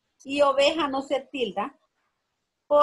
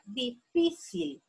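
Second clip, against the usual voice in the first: slow, syllable-by-syllable word; drawn-out reading; 4 dB quieter, much slower than usual. Shown as a demonstration. Teacher reading the first word for the class, drawn out. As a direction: sound the word out slowly. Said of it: "Vamos a leer la primera palabra".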